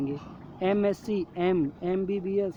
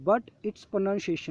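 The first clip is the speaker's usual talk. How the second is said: slow reading; 2 semitones higher, much slower than usual. Shown as a demonstration. Reading the worksheet rule.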